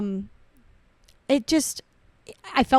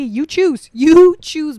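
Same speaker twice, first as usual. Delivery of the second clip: YOU choose, louder and higher on the repeat; emphatic challenge; 5 semitones higher, 10 dB louder, much slower than usual. Pretend. Putting the silly choice to friend, loud emphatic YOU choose. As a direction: hit YOU hard, building to a mock shout.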